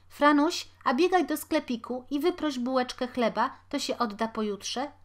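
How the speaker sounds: a poor mother chattering while she works; busy washerwoman. A narrator's reading. Washerwoman to her family, busily and loudly.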